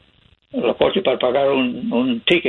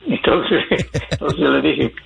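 laughing. Real, not acted. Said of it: "laughing at the memory".

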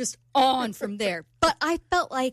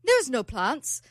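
put-on amateur British accent; slower than usual. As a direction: imitate a British man, roughly. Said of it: "You have a terrible British accent".

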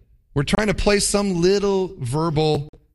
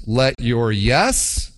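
scripture quote; 2 semitones lower, slower than usual. Retold or imitated. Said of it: "He says this".

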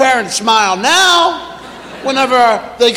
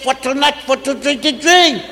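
imitating child. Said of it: "You said".

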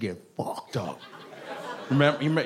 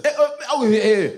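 higher, wordless grunts of a father spanking; grunting father; 8 semitones higher, 3 dB louder than usual. Retold or imitated. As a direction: grunt in place of sentences. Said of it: "wouldn't even use full sentences when he whooped us".

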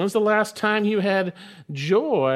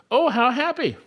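emphatic exclamation; 8 semitones higher, 3 dB louder than usual. Shown as a demonstration. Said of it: "is actually emphatic".

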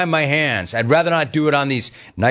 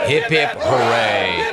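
mock cheer; 3 semitones lower, slower than usual. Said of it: "get a room of N F L vets to do hip, hip, hooray".

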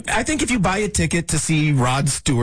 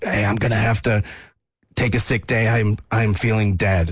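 sick voice; 5 semitones lower than usual. Retold or imitated. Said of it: "Is that your sick voice?".

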